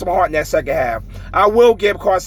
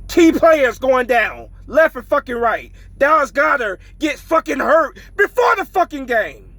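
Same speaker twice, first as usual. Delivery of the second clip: raised, exasperated shout about the injury; angry shout; 5 semitones higher than usual. Real, not acted. Eagles fan ranting to viewers about injuries, shouting angrily. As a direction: yell it out in real frustration.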